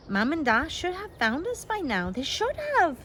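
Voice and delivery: high, tearful insisting; frightened girl sobbing that her parents will find them; insisting through sobs. A narrator's reading. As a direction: cry it out, pleading they'll come. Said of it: "she insisted through her sobs".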